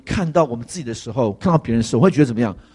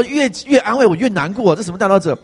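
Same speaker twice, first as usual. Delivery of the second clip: indignant cry; 6 semitones higher than usual. Retold or imitated. Retold indignant complaint.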